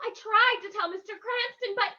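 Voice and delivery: very high, agitated outpouring; distraught. Acted. Muriel telling the Shadow what she saw, distraught. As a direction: blurt out the ordeal in an overwrought voice. Freed captive tells her ordeal.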